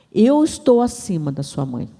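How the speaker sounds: firm, solemn declaration; weighty, emphatic pronouncement; God's declaration. Retold or imitated. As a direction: state it with divine authority. God's words, first firm statement.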